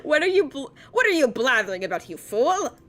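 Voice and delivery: hammed-up scolding, loud and quick; put-on character voice. Player voices a king berating someone, hammed-up scolding. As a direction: scold a fool in a theatrical voice. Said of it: "I had to say that in that voice".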